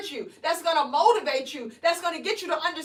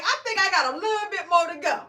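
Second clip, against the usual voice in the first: wry admission; 3 semitones higher, 3 dB louder than usual. Retold or imitated. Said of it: "I was like".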